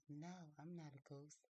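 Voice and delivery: a hint of a young girl's slow denial; lightly acted, drawn-out "No"; slow, gentle denial in Mary's part; Mary, lightly voiced. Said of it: "She says".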